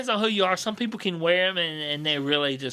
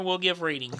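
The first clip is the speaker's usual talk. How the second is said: put-on Jamaican accent; 4 dB quieter than usual. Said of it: "Terrible Jamaican accent".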